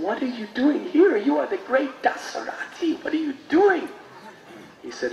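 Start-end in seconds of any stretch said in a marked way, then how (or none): 0.0-3.9 high, amazed asking; astonished question. Acted. People amazed to find the great Dasarathi serving, astonished. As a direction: ask in disbelief, voice climbing. Townspeople asking the famous scholar.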